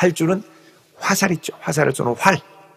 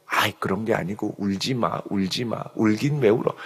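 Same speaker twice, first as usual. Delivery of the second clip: soft coaxing Samson; 6 semitones lower, 6 dB quieter than usual. Retold or imitated. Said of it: "마음이 막 무너지고 흔들리는 그 삼손".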